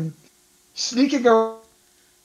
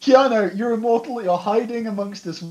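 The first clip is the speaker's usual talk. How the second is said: conspiratorial fan. Retold or imitated. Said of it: "And everyone's like".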